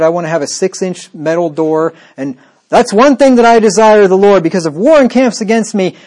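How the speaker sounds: sarcastic prepper voice; mock a fearful prepper. Mocking prepper version of verse.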